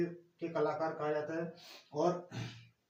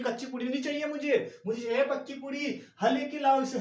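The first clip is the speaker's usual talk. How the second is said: mock yelling; 6 semitones higher than usual. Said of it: "मैं चिल्ला रहा हूँ".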